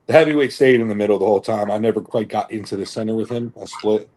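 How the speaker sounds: ordinary delivery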